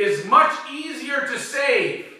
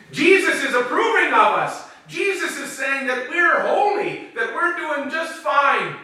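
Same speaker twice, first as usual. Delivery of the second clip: higher-pitched, pleased-with-himself mimicry; self-satisfied Pharisee; 6 semitones higher than usual. Pharisee convinced Jesus approves of his group, mock self-satisfied. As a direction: play a Pharisee congratulating himself. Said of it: "maybe the Pharisees were arrogant enough".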